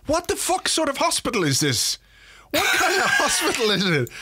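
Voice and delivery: high, disbelieving exclamation into a laugh; laughing outrage at a useless hospital; incredulous outburst. Real, not acted. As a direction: pitch it way up in disbelief.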